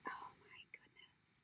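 near-silent whispered gasp of awe; awed whisper. Real, not acted. Admiring beaded appliques, awed whisper. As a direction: breathe it out in wonder.

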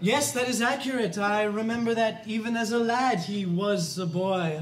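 lightly voiced, ponderous clergyman; Father Flaherty. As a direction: pretend priest, pausing portentously between phrases. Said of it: "This is Father Flaherty".

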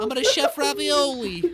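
chef line broken by laughter; laughing. Real, not acted. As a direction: giggle through the chef voice.

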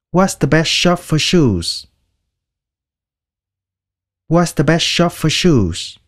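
slow and clear, each word spelled out; slow model sentence. Shown as a demonstration. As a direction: read it slowly for learners. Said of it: "Mua giày thì đi tiệm nào tốt?". (đọc chậm, rõ từng chữ)

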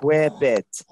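"Whip" hit loud with a puffed h; attempted breathy WHIP. Shown as a demonstration. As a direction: overblow the "hw" of "Whip". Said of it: "I can't pronounce it like you guys".

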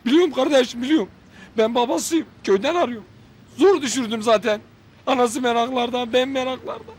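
Faruk emmi impression. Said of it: "yaparım Faruk emminin taklidini".

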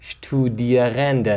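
اشتودیرنده repeated slowly as a model; careful teacher's repeat of the German word; pronunciation demo. Shown as a demonstration. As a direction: give each syllable of اشتودیرنده its time.

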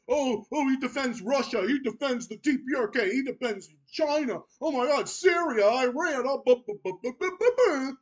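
mocking imitation of complainers, ending in babble; mock moaning. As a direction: parrot their griping, dissolving into nonsense syllables. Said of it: "assholes that bitch and moan about".

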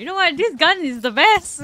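loud high gushing praise; excited. Real, not acted. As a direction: rave about it loudly. Streamer exclaims about gun.

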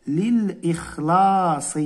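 للإخلاص drawn out, li-l-ikh-laas; slow model word. Shown as a demonstration. Teacher repeating the word to pupils, slow. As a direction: stretch للإخلاص slowly. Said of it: "سنقول للإخلاص".

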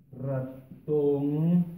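"Ratón" slowly in two parts, ra-tón; syllables sounded out. Shown as a demonstration. Teacher writing an example, "Ratón" slowly by syllable. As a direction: split "Ratón" and hold the ending.

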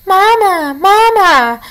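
high, small chirping voice from inside an egg; tiny peeping gosling. A narrator's reading. Unhatched gosling peeping for its mother. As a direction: peep like a newborn gosling. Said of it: "peeped the tiny, muffled voice".

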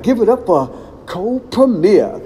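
a lighter redo of the MC intro; announcer voice. Retold or imitated. Host introducing the group again, light announcer call. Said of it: "So he was like".

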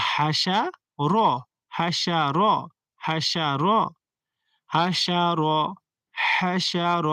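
হাসার with light হা pushed from the throat; গলায় চাপ, বাতাস ছেড়ে; throat-pressed breathy ha. Shown as a demonstration. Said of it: "high চাপ দিবেন".

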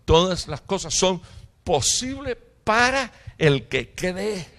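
the Lord's firm reproof, building to emphatic; indignant Lord. Retold or imitated. Jesus answers a man in need, indignant and building. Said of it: "mire lo que le dijo el Señor".

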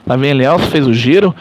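live play-by-play. Acted. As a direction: call the action as it happens. Play-by-play continues.

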